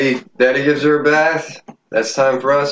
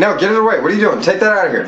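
disgusted orders; 7 semitones higher, much faster than usual. Real, not acted. Ordering the mess taken away.

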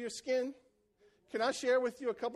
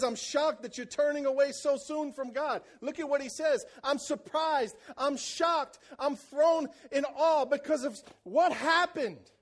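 shocked Paul; 5 semitones higher, 4 dB louder than usual. Retold or imitated.

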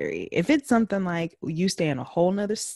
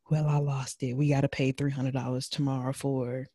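lower, softer, lightly voiced husband; reporting husband; 4 semitones lower, 5 dB quieter than usual. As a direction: sheepishly report back from a lost battle, imitated. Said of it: "come back to report to you".

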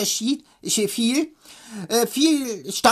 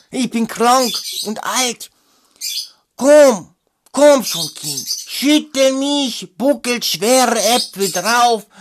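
put-on slow, louder, creaky old tree begging; old apple tree; 5 dB louder, slower than usual. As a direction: plead like a sick old tree. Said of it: "der Apfelbaum ... rief".

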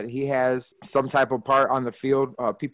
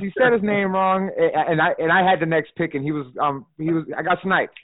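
heated retelling; 5 semitones higher, 4 dB louder than usual. Retold or imitated. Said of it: "I was pissed".

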